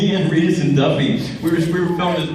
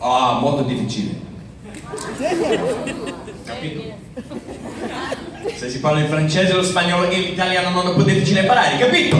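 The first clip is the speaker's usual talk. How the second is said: Italian accent demo; 2 semitones higher, faster than usual. Shown as a demonstration. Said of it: "learn the accent?".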